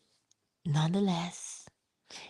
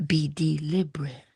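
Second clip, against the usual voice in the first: unvoiced whisper of the advice. Shown as a demonstration. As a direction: breathe the words out. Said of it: "repeated advice".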